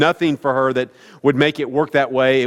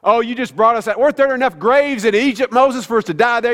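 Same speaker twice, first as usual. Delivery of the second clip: whiny Israelites; 5 semitones higher than usual. Retold or imitated. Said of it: "a million whiny Israelites".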